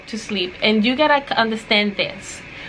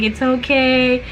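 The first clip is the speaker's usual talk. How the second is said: soothing; 2 semitones higher, 3 dB louder, slower than usual. Retold or imitated. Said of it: "she was like".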